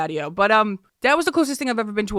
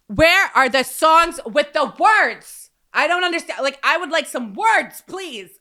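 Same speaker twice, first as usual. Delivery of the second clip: higher, slow bewildered tourist; puzzled visitor; 7 semitones higher, 4 dB louder than usual. Retold or imitated. New York visitor begging the DJ for songs with words, higher.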